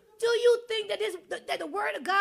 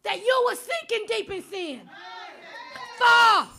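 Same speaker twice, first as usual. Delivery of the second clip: full-force preaching; 2 semitones higher than usual. Acted. Preacher exhorting the congregation, at full force. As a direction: preach it hard and call them out.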